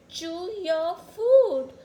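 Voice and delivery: loud, slow firm order; stern command. Acted. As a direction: order it slowly and firmly. Telling David to chew.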